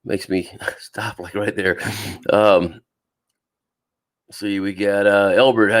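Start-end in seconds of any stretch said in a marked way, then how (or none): 0.1-1.8 pain cutting off the words; biting down on pain. Real, not acted. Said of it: "that pain will hit me every once in a while".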